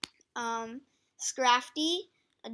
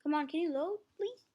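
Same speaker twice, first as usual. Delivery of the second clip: pleading with a machine; 4 semitones higher than usual. Real, not acted. Begging slow page to load.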